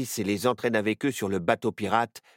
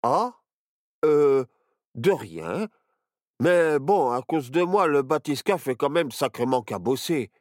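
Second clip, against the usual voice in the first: put-on bashful boy; 5 semitones higher, 5 dB louder than usual. A narrator's reading. Barnabé voiced, embarrassed.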